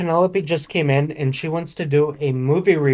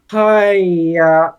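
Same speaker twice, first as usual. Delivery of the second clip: put-on loud, exasperated east asian accent haiyaa; Uncle Roger haiyaa; 3 semitones higher, 6 dB louder than usual. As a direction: sigh it out like a fed-up uncle. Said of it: "according to Uncle Roger, if I say".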